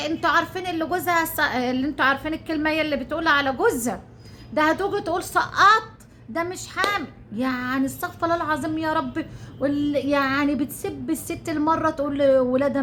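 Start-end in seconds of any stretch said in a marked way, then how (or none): 4.5-7.1 a lighter, higher whiny mimicry; mock whiny voice. Mocking the rival's miscarriage story, lightly whiny mimicry. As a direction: lightly mimic her complaining tone. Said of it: "وتعمل لك ازاي؟".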